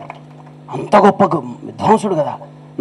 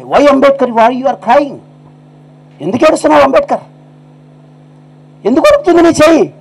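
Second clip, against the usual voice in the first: higher, puzzled questioning of the American; concerned foreigner asking; 8 semitones higher than usual. Retold or imitated. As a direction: ask gently why he cries, rising up. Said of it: "అమెరికాడు కదా". (American ఆశ్చర్యంగా, ఆందోళనగా అడగడం)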